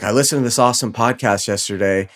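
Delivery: joking. Retold or imitated. Mom ribbing her son about his own podcast, joking. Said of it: "she was kinda joking with me".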